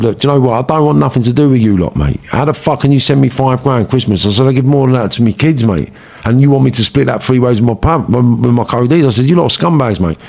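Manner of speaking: indignant telling-off. Retold or imitated. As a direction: tell them off with offended pride. Retold telling-off of associates.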